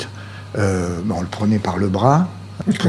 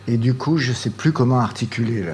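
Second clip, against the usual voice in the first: hoarse, throat catching; frog in throat; 3 semitones higher than usual. Real, not acted. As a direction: talk through a frog in the throat. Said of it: "j'ai un chat dans la gorge".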